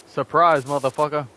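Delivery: loud hammed-up gotcha; spring it on him, loud and gleeful; mock shout. Cop ambushing Dexter with a loud mock shout.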